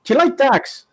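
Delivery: high, put-on voice for a film character; lightly hammed film accent; film character impression. To friends, quoting Snatch in a high mock voice.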